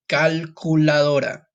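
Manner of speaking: "Calculadora" drawn out, ending like Dora; slow, syllable-by-syllable "Calculadora". Shown as a demonstration. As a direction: say "Calculadora" slowly, with "dora" as in Dora the Explorer. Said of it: "With Dora the Explorer at the end".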